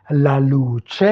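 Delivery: "La luce" with a long first vowel in luce; Italian pronunciation demo. Shown as a demonstration. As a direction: model "La luce" distinctly in Italian. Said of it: "prononcer les mots". (prononcer « La luce » distinctement à l'italienne)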